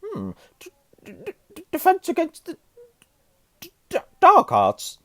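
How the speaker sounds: very high, halting stutter; nervous Quirrell. A narrator's reading. Reluctant professor names his subject, stammering. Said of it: "muttered Professor Quirrell".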